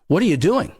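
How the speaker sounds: high, sharp startled question from the wife. Retold or imitated. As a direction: voice the wife jolted awake by the noise.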